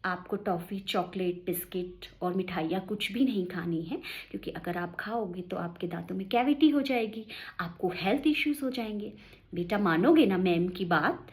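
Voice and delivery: put-on gentle, loving teacher coaxing a child; teacher lovingly persuading the boy to give up sweets. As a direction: coax the child tenderly, like a fond teacher. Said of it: "बड़े प्यार से कहती है".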